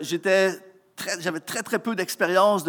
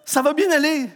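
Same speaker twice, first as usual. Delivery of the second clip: ironic echo in his head; 5 semitones higher than usual. Retold or imitated. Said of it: "j'entendais dans ma tête".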